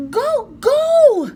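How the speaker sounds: loud high urgent yell; urgent shout. Acted. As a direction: hurry her out, shouting. Jack urges her to flee.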